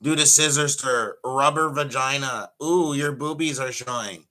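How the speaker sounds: mock ringside heckling; mock heckler yell. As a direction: taunt like a crude fan in the crowd. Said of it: "they'll yell".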